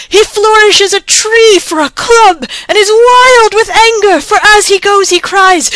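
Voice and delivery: high, loud frantic report; panicked messenger. A narrator's reading. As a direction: urge the king to flee at once. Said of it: "panted the messenger".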